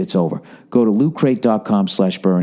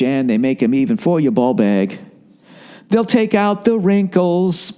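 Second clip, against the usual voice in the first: mock sultry ad read; 6 semitones higher than usual. Improvised ad mocking underwear.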